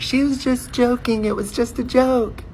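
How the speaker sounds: very high pleading voices; high nervous chorus; friends covering. Retold or imitated. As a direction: rush to save their friend. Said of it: "they're all like".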